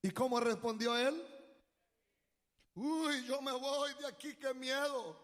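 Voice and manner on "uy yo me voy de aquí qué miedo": mock fright. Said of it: "Así dijo".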